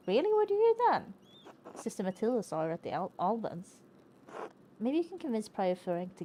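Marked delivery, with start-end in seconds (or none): 0.1-1.8 excited. Real, not acted. Excited about saffron in game.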